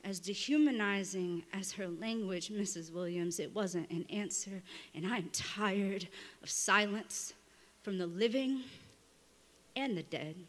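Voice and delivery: measured, restrained poetry recital; spoken-word poem. Acted. Poet addressing a dead woman at her grave, measured recital. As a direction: deliver it like a confessional letter read on stage.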